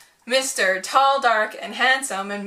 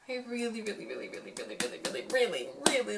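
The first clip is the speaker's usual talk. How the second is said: hushed gushing; 2 semitones lower, 10 dB quieter, faster than usual. Real, not acted. Gushing string of repeated reallys.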